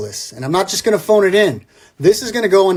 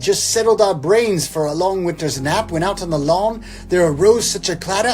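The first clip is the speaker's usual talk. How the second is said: grand, theatrical poem reading over music; poem recital; 3 semitones higher than usual. Acted. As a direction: read it like a big Christmas classic.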